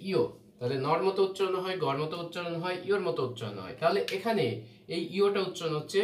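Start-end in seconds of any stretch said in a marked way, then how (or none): 0.1-0.2 ইয়ো said as "i-o"; correct letter name. Shown as a demonstration. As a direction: say ইয়ো as two vowels, i then o. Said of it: "এটার সঠিক উচ্চারণ হচ্ছে".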